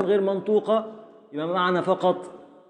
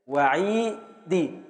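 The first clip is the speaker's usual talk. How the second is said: slow scansion; much slower than usual. Shown as a demonstration. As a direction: draw out وعيدي to show the meter. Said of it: "هنقف على الدال المكسورة". (تقطيع بطيء وهادئ)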